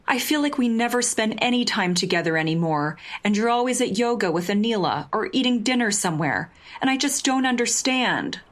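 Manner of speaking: put-on drunk pleading, high and cracking at the edges; voice breaking. Drunk Justine pleading with Jasmine, voice breaking high. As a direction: let the voice climb and crack as you plead. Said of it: "high and breaking at the edges".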